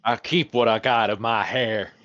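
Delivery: gatekeeper with a Texan twang; Texan accent. Acted. Gatekeeper answers talk of his hair, in a Texan accent. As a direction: put on a Texan accent for the local. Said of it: "these people need Texan accents".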